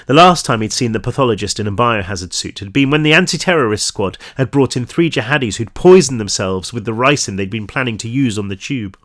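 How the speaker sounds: measured audiobook-style story reading; story narration. A narrator's reading. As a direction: read the crime story aloud to listeners. Reads story aloud.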